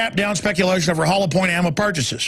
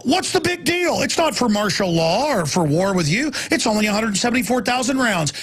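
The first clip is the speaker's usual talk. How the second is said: mocking dismissal; 3 semitones higher than usual. Mocking critics who shrug off the ammo purchases, scoffing. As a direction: mimic a smug official waving it away. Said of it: "and go".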